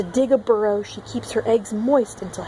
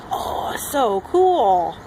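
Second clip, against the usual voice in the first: slow awe; much slower than usual. Real, not acted. Admiring the frog.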